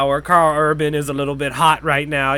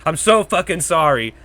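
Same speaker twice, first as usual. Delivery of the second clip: over-apologize to nitpickers, then ease down; sarcastic rant winding down; sarcastic apology; 3 semitones higher, faster than usual. Retold or imitated. Sarcastic retort to online critics.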